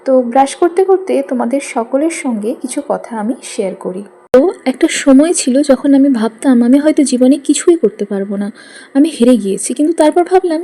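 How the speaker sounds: talking around a toothbrush; words through a mouth of toothpaste; while brushing teeth. Real, not acted. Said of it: "চলো, আমি এবার brush করে নিই।".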